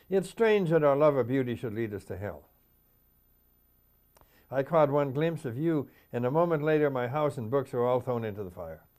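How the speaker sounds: measured poetry reading, each line falling away; poem recitation. Acted. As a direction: declaim the line, then let it settle. Reads own poem aloud.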